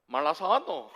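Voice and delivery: gruff Gyeongsang dialect question, voice moving little from his own; a mild Gyeongsang man brushing off a gift; lightly put-on Gyeongsang accent. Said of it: "표현을 어떻게 하냐면".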